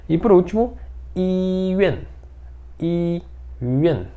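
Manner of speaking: iyuan said high, yuan sounding like yen; Mandarin word yuan. Shown as a demonstration. Teacher introducing the word for hospital. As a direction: model iyuan with an e sound in the middle. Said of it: "Aqui é yuan, como se fosse E".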